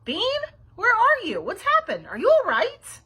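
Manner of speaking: high, alarmed yell. A narrator's reading. Babysitter searching for missing Bean, yelling. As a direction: call out loudly in a panic. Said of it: "Nancy was yelling too".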